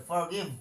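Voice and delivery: "forgive" with f and final v; model pronunciation. Shown as a demonstration. Teacher telling pupils to pronounce it this way, model pronunciation. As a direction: demonstrate "forgive" as "fuh-giv". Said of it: "এরকম উচ্চারণ করতে হবে".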